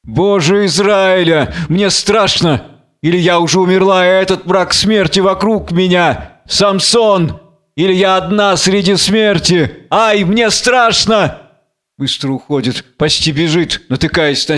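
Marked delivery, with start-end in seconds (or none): 0.0-11.4 theatrical fear, building to a slow wail; mildly hammed-up terror; frightened. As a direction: lament in dread of the dark. Blind woman terrified alone in darkness.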